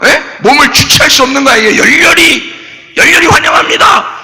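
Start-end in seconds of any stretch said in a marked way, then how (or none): 1.8-4.1 fervent welcome. Shown as a demonstration. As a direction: cheer it like greeting a president.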